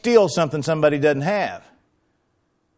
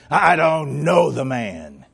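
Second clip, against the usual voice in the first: sworn denial; slower than usual. Acted. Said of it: "call down curses on himself".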